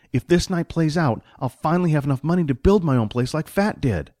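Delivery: lightly voiced sidekick explaining himself; money-minded sidekick. Voices Jack in the story.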